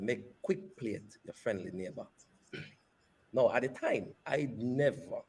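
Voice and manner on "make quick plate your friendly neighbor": dream voice. Retold or imitated. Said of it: "And the voice said".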